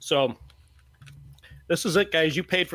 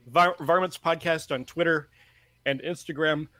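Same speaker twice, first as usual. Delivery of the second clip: coughing fit. Real, not acted. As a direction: voice strained between coughs. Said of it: "I'm sorry I'm coughing so much".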